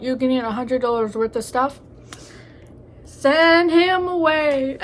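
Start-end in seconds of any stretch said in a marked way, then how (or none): 3.0-4.8 dismissive advice. Real, not acted. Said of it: "advice to girls watching".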